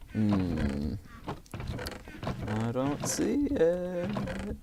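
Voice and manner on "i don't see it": voice crack. Real, not acted. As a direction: voice cracking high and slow. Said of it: "Voice crack".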